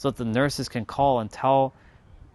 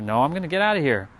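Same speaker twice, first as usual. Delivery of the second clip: determined vow. Retold or imitated. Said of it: "but I was like".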